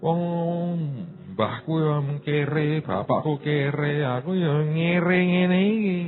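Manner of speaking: slow, quiet, resigned moaning; a mock whiny lament in Javanese; self-pitying complaint. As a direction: sigh it out like a defeated poor man. Voicing a self-pitying poor man.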